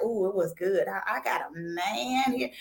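playful ooh, it was good; mock swooning. Shown as a demonstration. Host mock-bragging about her guest, playful swoon. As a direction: swoon over having a man. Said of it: "I said it like that".

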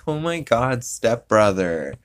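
hint of a sultry porn actress; breathy porn voice. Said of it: "where it's like".

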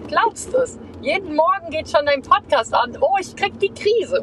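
put-on high, squeaky girly voice. Shown as a demonstration. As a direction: pitch way up and squeak it. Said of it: "Das war eben die piepsige Stimme".

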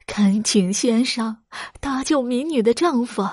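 a mild plea for help; pleading. Acted. Wife kneels before beggar, mildly tearful plea. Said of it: "哀求道".

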